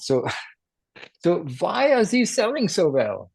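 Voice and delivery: slow, laughing imitation of a heavy German accent; Klaus in German accent. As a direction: put on a thick German accent while laughing. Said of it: "in this very heavy German accent".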